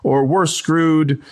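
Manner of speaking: mock-frantic plea to a star who won't budge; animated pleading. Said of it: "the guy really gets animated".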